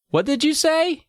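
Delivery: very high, incredulous mother voice; hammed-up shocked mom; astonished mom. A narrator's reading. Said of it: "my mom asked, gaping at me".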